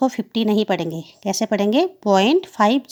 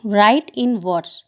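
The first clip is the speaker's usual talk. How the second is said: very slow, each word spaced out; slow dictation; much slower than usual. Real, not acted. Teacher dictating a heading to children, very slow. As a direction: dictate it word by word for the class to copy.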